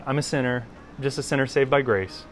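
held-back parody of a pious cliché; mock platitude voice. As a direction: lightly imitate someone reciting a church platitude. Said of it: "I don't know why I do that voice".

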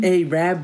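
"Arab" said as "AY-rab", first syllable drawn out; joking pronunciation of Arab. Shown as a demonstration. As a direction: joke version of "Arab", "AY-rab" with long first vowel. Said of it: "started saying it as a joke".

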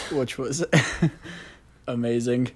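deadpan sarcasm after a small laugh; understated irony, barely signalled; sarcastic. Real, not acted. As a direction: say it drily, meaning the opposite. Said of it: "that was sarcasm".

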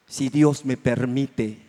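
apostle's advice, humbly spoken; humble prayerful words. Acted. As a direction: say it slowly and humbly. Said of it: "mejor deberían".

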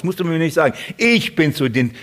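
ordinary talk, nothing marked

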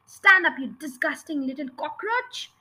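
booming tyrant headmistress; headmistress bellowing. Acted. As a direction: roar it down at the pupil.

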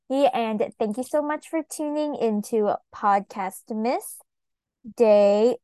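short of breath, words squeezed out; running out of air. Real, not acted. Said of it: "Sorry, I'm running out of breath".

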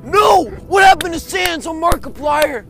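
hammed-up panicked gamer; Markiplier impression. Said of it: "Markiplier is like".

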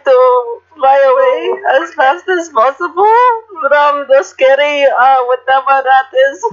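high-pitched, flustered escape; mild panic. Acted. Player fleeing from the scary whatever it is, mildly panicked. Scared character tries to flee.

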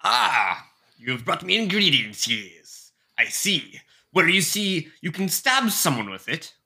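put-on a light pirate accent on the alchemist; lightly voiced pirate-accented shopkeeper. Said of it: "I gave this man a pirate accent".

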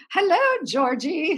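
a playful, swooping hello; flamboyant director. Retold or imitated. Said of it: "was so flamboyant".

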